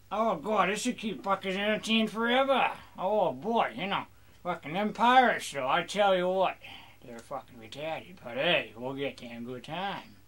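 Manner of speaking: mock pirate rant to the crew; pirate rambling.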